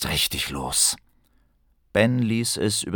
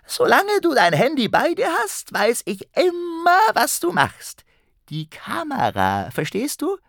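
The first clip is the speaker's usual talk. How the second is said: high, gloating goblin voice; menacing goblin. Acted. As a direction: taunt him like a spiteful goblin. Goblin threatens Ben.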